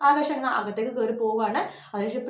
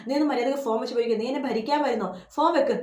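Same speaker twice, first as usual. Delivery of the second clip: mock angry. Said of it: "അശ്വിനാകെ ആകെ ദേഷ്യം വന്നിരിക്കുക".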